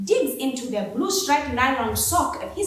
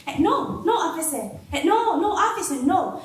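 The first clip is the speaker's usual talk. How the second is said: politely pleading; 5 semitones higher than usual. Acted. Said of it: "voices carefully modulated to sound polite".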